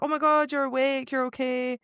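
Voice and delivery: a friend thrilled she is awake; excited relief. Retold or imitated. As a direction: play Evie overjoyed she woke. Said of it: "that's when Evie's like".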